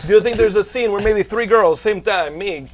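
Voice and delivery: a hint of Van Damme's Belgian-French accent pitching a film; Jean-Claude Van Damme impression. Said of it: "That's what the meeting would sound like".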